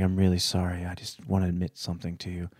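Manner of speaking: imitating an apologetic Southern mechanic; retold confession with a Southern accent; thick Southern accent. Mechanic confessing to the storyteller's dad, Southern accent. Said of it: "in his thick Southern accent".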